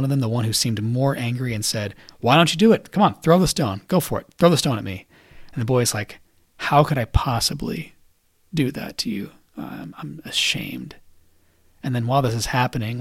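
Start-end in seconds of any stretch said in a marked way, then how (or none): 2.2-5.1 raised, higher voice egging someone on; retold challenge, pushing insistently; urgent dare. Dominic kneeling before the angrier boy, urging him on, challenging. 6.6-11.0 slow, halting mock shame; remorseful. Angry boy answering Dominic in his moment of conversion, haltingly remorseful. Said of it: "having his moment of conversion".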